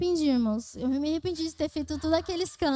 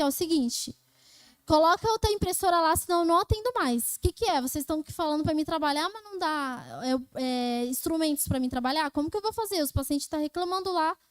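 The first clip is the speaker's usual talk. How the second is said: re-enacting an angry confrontation with the boss; fed-up worker laying down an ultimatum; retold outburst. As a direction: demand it indignantly, pitched up a little. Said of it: "eu saí fora de mim".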